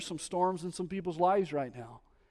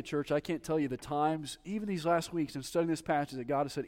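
usual speaking voice

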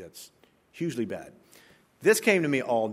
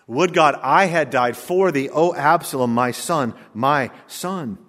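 lament; 7 dB louder, slower than usual. Acted. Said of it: "Who's that sound like?".

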